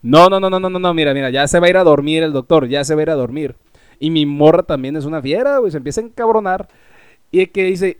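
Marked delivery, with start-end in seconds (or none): 0.0-6.7 pleading. Retold or imitated. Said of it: "empezamos a mendigar".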